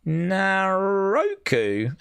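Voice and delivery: Naroku drawn out very slowly with a rising questioning tune; disbelieving repeat. Shown as a demonstration. Host questions the spelling aloud, slow disbelieving rise. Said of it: "That can't be Naroku".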